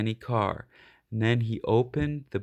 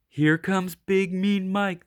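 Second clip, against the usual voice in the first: other dogs; 6 semitones higher than usual. Acted. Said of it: "the other dogs would say".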